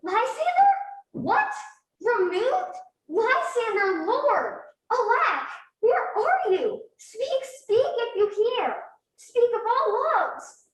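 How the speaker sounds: a woman wakes from a nightmare, afraid and alone; frightened calling. Acted. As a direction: call out in rising panic into the dark. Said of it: "look how I do quake with fear".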